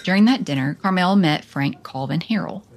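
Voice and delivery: measured documentary read with lifted phrase openings; podcast narrator reading from a script; scripted narration. A narrator's reading. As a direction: read the biography aloud, punching each new phrase.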